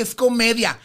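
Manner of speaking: imitated producer's firm explanation; explaining. Producer defending the character to the diva, explaining. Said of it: "el productor decía".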